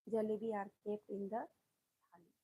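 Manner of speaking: very slow, word by word, as if dictating; slow dictation. Shown as a demonstration. Teacher reading the sentence aloud for students to copy, very slowly. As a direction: spell it out slowly so students can write along. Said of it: "तो क्या करोगे आप".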